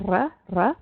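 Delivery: "R" trilled with the tip of the tongue; Spanish rolled R. Shown as a demonstration. Teacher shows how Spanish speakers do it, rolled R. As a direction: roll the "R" on your tongue tip. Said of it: "they roll the tip of their tongue".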